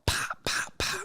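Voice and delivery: voiceless popping slap noises; imitated table slaps. Storyteller imitating a man slapping the table, percussive pops. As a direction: pop out each slap separately. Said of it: "he starts slapping the table".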